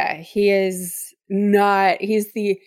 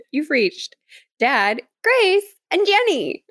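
mock family voicemail, rising high on the names; hammed-up perky machine greeting; answering-machine greeting; 5 semitones higher, slower than usual. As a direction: recite it like an outgoing message, giggling. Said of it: "you hear, like".

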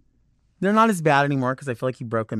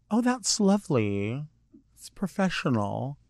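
teeth-don't-close talk; 2 semitones higher, 5 dB quieter than usual. Retold or imitated. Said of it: "Like, their teeth don't close".

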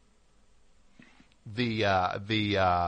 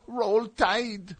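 put-on high-pitched, clumsy Southern accent; terrible put-on Southern accent; bad Southern accent; 9 semitones higher than usual. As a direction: attempt a Southern drawl and botch it. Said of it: "What a bad accent that was".

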